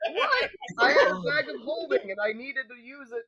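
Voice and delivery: crying with laughter; laughing protest. Real, not acted. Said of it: "laughing protest".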